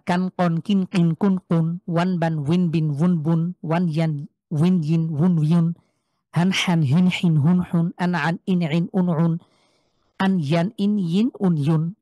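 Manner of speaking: rhythmic paired syllables like "ওয়ান বান", each closing on n; tongue-twister drill. Shown as a demonstration. Teacher loosening students' stiff tongues, tongue-twister pronunciation drill. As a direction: recite "কান কন, কিন কিন" in pairs, keeping the two k sounds distinct. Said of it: "tongue টুইস্টারের মতন".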